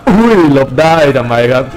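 usual speaking voice

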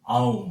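আউম। said as one drawn 'au' gliding into m; correct Sanskrit pronunciation. Shown as a demonstration. Teacher shows how the symbol is pronounced, আউম। modelled carefully. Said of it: "উচ্চারণ হবে".

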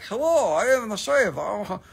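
lightly voiced smug clean-shaven guy; a hint of preening at the mirror; playful put-on voice of his shaved past self; mock shaved self. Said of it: "and it was like".

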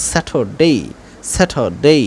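স্যাটারডে with the r silent; British Saturday. Shown as a demonstration. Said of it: "এজন্য". (স্যাটারডে, আর বাদ দিয়ে)

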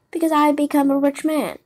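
eager, lightly acted boast; proud announcement. A narrator's reading. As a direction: blurt out the good news proudly. Puppet announces his sudden wealth.

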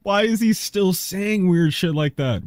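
high squealing laugh into the words; talking through real laughter; cracking up. Real, not acted. Laughing at the clip.

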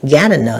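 Gardener with the first syllable stressed. Shown as a demonstration. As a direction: lean on the opening syllable of Gardener. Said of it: "nhấn âm đầu".

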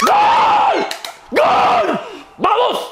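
very high, loud goal scream; goal shout. Real, not acted. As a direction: yell it out at full power. Fan celebrating a goal.

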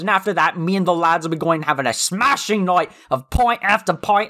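a light, hammed-up Cockney lad voice; half-hearted Cockney that slides toward Irish; mock Cockney accent. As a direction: play a rowdy London punk in a mild Cockney accent. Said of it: "He had this really thick Cockney accent".

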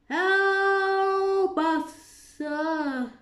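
high, loud, panicked cry; desperate plea. A narrator's reading. Gardeners beg Alice for help, panicked. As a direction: beg for rescue. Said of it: "they cried".

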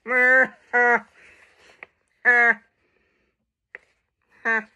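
eerie mooing chuckle; a spooky cow laugh; a hint of a creepy cow. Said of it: "that was creepy".

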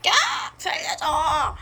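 sobbing plea; crying for help. Acted. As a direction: beg through tears. Captive cries for help.

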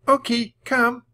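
high, loud command; calling a dog. A narrator's reading. Annie shows Jack the trained puppy, calling it. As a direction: summon the puppy firmly.

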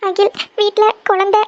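pleading to go home at once; a mother scared for her child, close to crying; frightened, near tears. Acted. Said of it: "எதுக்கு அழுதுட்டு இருக்கீங்க?".

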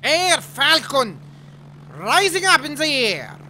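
loud, slow hyped callsign; announcer voice. Pretend. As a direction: announce it like a hero.

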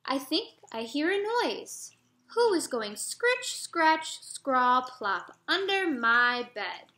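put-on a frightened boy listening for the noise; scared little boy. Jeremy hearing noises under his bed, mildly scared child voice.

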